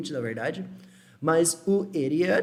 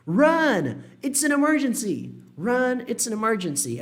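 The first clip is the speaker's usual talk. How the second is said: raised, higher urgent cry of alarm; urgent shout; 6 semitones higher than usual. Acted. Someone in a film urging others to run, urgent shout. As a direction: yell it like an emergency in a film. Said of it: "frase que você poderia ouvir num filme".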